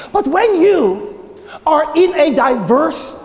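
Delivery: emphatic pulpit delivery with weighty pauses; preaching. Real, not acted. Pastor charging churches to answer to God, emphatic preaching. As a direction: build the charge, stretching key words.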